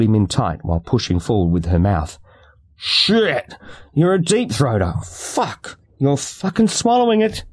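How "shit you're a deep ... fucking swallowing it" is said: high, startled outbursts; much higher cries of surprise; shocked exclamations. Acted. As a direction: blurt it out in disbelief.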